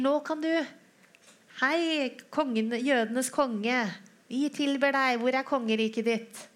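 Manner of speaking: high, loud, sneering fake reverence; mocking homage. Soldiers mocking Jesus as king, loud sneering. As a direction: hail him as king with scorn. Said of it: "latterliggjør han".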